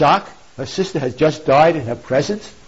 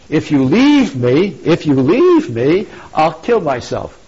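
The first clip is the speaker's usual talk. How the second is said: pleading threat; slower than usual. Acted. Dido pleads with departing Aeneas.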